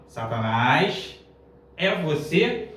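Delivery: mock witch's cry. Witch calling after Chaves drops the broom, imitated questioning cry. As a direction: stretch "Satanás" slowly, questioning, as a mild imitation. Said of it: "a bruxa grita assim".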